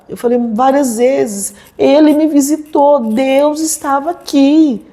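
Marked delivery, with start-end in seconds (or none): 1.8-4.9 higher, emphatic, slowed down; fervent insistence. Retold or imitated. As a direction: proclaim it so they finally believe. Repeating testimony, not believed.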